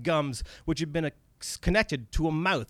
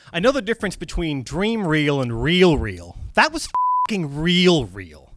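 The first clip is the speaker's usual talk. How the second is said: panicked; 3 semitones higher, 6 dB louder than usual. Acted. Dennis panicking out loud.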